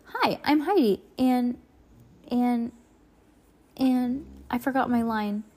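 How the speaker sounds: high, faltering nervous start. Acted. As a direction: stumble nervously and trail off. Heidi nervous on camera.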